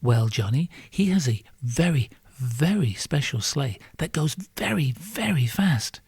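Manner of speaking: lightly voiced mother, slowing down; patient parent. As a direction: stretch out the very, very fast for a child. Mother answers child Johnny.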